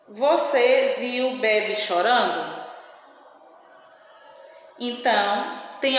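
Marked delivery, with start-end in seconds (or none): 1.4-1.8 "Bebe" stressed on the first syllable; unaccented misreading. Shown as a demonstration. Teacher reading an unaccented word to pupils, misreading "Bebe". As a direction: read "Bebe" as if it had no accent mark. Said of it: "a pronúncia vai ficar errada".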